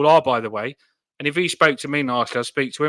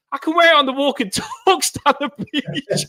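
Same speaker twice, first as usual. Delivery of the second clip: mock pleading self; 10 semitones higher than usual. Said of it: "I goes".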